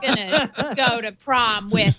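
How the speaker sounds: put-on slow, sulky teen complaint; drawn-out teenage whine; high school kid voice. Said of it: "It feels like high school. Where it's like".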